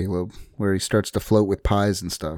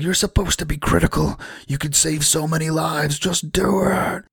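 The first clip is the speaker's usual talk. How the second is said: pleading Ethan; 8 semitones higher than usual. Retold or imitated. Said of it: "He's like".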